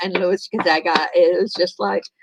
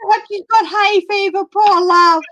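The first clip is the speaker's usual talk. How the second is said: mock sympathy; 10 semitones higher, 5 dB louder than usual. Mocking posh remark.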